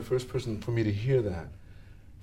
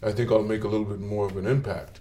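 deep voice; 5 semitones lower than usual. Retold or imitated. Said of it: "if I speak like this".

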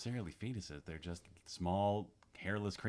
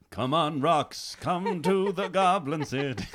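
hammed-up rock-star impression, higher and louder with a laugh; impression of a singer; 8 semitones higher, 10 dB louder, slower than usual. Host doing a singer impression for the other hosts, laughing. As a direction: croon it like a glam rock goblin king. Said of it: "These are great impressions".

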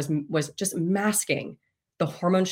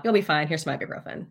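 super nonchalant; faster than usual. Retold or imitated. Urgent care doctor sending patient off with ibuprofen, super nonchalant. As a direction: breezily dismiss the patient. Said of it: "Just super nonchalant".

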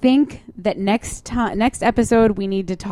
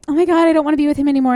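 imitating her teen self; 7 semitones higher, 4 dB louder, much faster than usual. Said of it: "I'll be like".

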